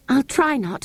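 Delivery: put-on girl voice. A narrator's reading. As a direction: promise it brightly.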